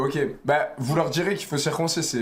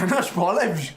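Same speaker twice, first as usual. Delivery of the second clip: nervous laugh; 3 semitones higher than usual. Real, not acted. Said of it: "c'est un rire nerveux".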